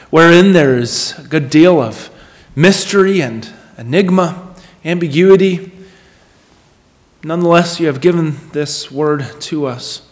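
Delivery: earnest, measured public prayer with pauses; congregational prayer. Real, not acted. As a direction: lead them in prayer, phrase by deliberate phrase.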